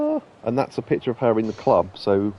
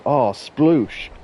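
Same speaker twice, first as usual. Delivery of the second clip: Pam's sploosh; 4 semitones higher, 4 dB louder than usual. Retold or imitated. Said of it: "That's the noise that Pam makes".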